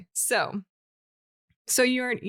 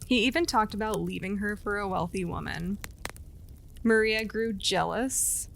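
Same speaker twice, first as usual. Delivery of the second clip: steady storyteller voice reading a legend; storytelling narration. A narrator's reading. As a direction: tell it like a campfire legend.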